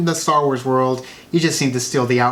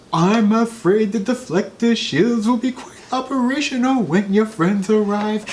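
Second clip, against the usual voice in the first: higher, smug sarcastic Emperor voice; Emperor impression; 6 semitones higher than usual. Host quotes Emperor to compare Snoke, sarcastic and higher. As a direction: sneer it out like the Emperor. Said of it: "it reminds me so much of".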